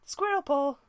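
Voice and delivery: a loud, furious call of her name; angry shout. A narrator's reading. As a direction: bark her name across the clearing. Firestar calls out sharply.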